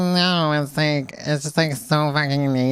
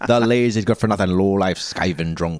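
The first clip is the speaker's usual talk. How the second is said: put-on Irish accent; 6 semitones lower than usual. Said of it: "leprechaun to pirate".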